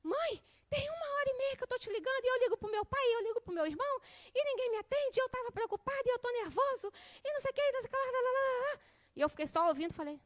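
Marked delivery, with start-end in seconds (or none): 0.0-8.8 put-on fast, high teen rant, voice pitched well up; mock exasperated son scolding mom; imitating angry son. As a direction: rattle off a teenage son's complaint at his mother. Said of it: "descascou em cima de mim".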